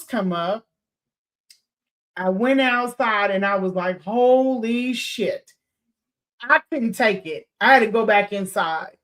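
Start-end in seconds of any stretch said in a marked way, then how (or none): 4.0-6.6 slow, drawn-out retold shock; overwhelmed disbelief. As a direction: stretch both words in dismay. Retells being overwhelmed on going outside.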